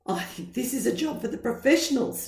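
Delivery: fast, wheezy dad; wheezing. Acted. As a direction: gasp it out short of air. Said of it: "he wheezed".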